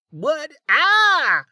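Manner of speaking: high-pitched yelp of alarm; startled shout. A narrator's reading. Barge owner stumbling back as Amelia lands, startled shout. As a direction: cry out high, caught off guard. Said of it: "Canab shouted".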